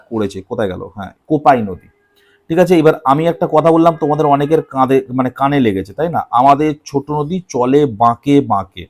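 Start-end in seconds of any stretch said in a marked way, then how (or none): 6.3-8.8 slow, deliberate recitation. Shown as a demonstration. Teacher slowly reciting the line to his students, deliberate. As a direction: slowly recite "আমাদের ছোট নদী চলে বাঁকে বাঁকে", leaning on "বাঁকে বাঁকে". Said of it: "তুমি বলবে, "স্যার কেন?".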